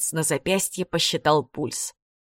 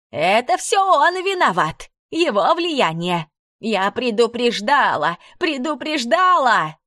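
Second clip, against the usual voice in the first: высоко и громко, медленно обвиняя; кричать, тыча пальцем в виновника; истеричный крик; 6 semitones higher, slower than usual. A narrator's reading. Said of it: "закричала". (пронзительно, в истерике)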